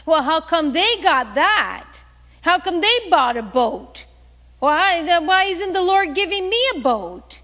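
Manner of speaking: loud, indignant mock grumbling; imitating a jealous complainer, rising in pitch; envious complaint. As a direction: protest that it's unfair, stressing the key words. Acts out envious complaining believers.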